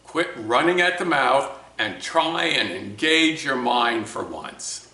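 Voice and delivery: imitated angry scolding, slowing at the end; retold fatherly rebuke with moderate force. Father scolding son over math homework, imitated anger. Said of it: "in an angry voice".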